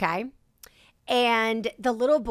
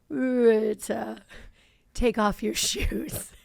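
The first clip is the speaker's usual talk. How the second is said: lightly voiced toddler, slow and drawn-out; little boy impression; much slower than usual. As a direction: imitate a small boy's slow, creepy request. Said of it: "he's filming him and he's like".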